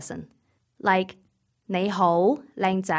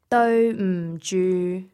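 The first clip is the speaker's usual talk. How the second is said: slow; slower than usual. Shown as a demonstration. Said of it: "illustration of these three level tones".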